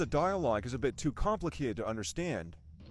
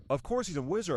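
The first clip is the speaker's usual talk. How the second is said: Hagrid R sound. Retold or imitated. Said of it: "with the R sound".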